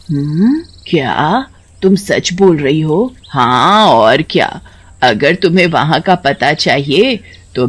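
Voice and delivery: put-on an eager old granny, taking her time; old grandmother. Grandmother answers neighbor.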